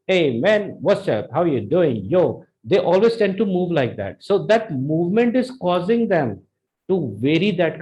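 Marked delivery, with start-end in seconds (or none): 0.1-2.4 imitated hip-hop street greeting; mock hip-hop slang delivery; hip hop style. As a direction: put on a light hip-hop swagger. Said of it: "the hip hop style".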